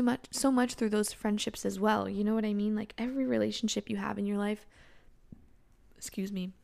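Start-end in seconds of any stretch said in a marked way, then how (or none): 6.0-6.5 burping while talking. Real, not acted. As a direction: voice catching on a burp. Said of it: "I'm drinking ... I'm kind of burping a lot".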